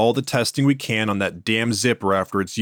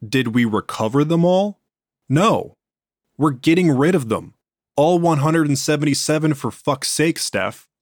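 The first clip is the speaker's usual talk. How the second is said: angry; 5 semitones higher than usual. Acted. Angry boss confronts researcher.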